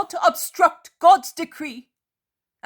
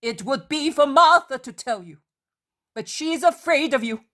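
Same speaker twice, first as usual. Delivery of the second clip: loud, much higher, furious commands; wrathful; 8 semitones higher, 6 dB louder than usual. A narrator's reading. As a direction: drive them out of the house in fury. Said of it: "She is imposing in her wrath".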